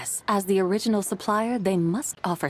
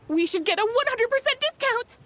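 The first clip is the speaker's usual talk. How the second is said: high, excited declaration; high triumphant reveal. Acted. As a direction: announce the win with glee. Triumphant conclusion of math.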